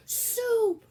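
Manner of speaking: very loud, high defiant shout. Acted. Cook defying Louise, loud shout. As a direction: scream the forbidden word. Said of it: "shouted Cook".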